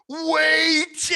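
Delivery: a high, loud, desperate cry; panicked yell. Retold or imitated. Brett yells after the kids walking out, a high panicked shout. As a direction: shout it to stop a crowd from leaving.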